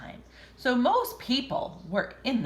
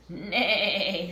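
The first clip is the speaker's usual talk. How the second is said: horse neigh. Acted. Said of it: "said Horse".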